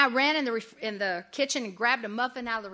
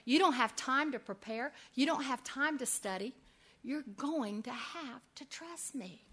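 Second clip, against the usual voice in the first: gentle voice of God. Retold or imitated. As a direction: speak as a calm, patient God. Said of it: "I felt his Holy Spirit saying to me".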